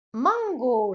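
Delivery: mango, Japanese vowels. Shown as a demonstration. Teacher modelling mango for learners.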